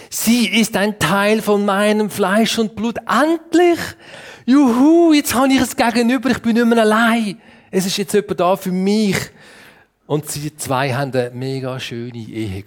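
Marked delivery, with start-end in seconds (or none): 0.1-9.2 high, loud jubilant outburst; Adam exclaiming. Acted. Adam sees Eve and is no longer alone, jubilant exclaiming. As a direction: cheer with relief, building high then easing slightly. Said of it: "rief Adam aus".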